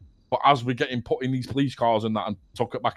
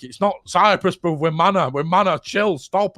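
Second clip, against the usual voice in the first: higher, urgent mock shouting; retold shout; 5 semitones higher than usual. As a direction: plead as if calling to a car. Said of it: "I'm trying to shout at a car".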